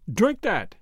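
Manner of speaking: a sudden loud shout to drink; sudden loud command. A narrator's reading. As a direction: snap the words out suddenly. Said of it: "said in a new, loud, and sudden voice".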